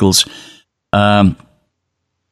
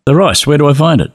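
impatient repeat; 3 semitones higher, faster than usual. Retold or imitated. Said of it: "And I said".

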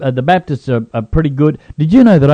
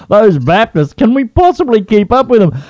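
sarcastic awe; 8 semitones higher than usual. Acted.

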